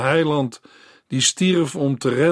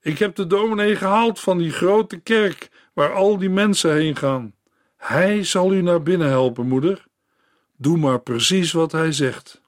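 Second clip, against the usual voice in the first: eager daughter, higher; girl's voice; 4 semitones higher than usual. Acted. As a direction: reassure her dying mother. Girl to her mother.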